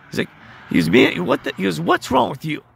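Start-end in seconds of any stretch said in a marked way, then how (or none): 0.9-1.5 imitated irritation, higher and louder; pissed. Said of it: "and he gets pissed". 1.8-2.6 higher-pitched mock annoyance; pissed. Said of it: "and he gets pissed".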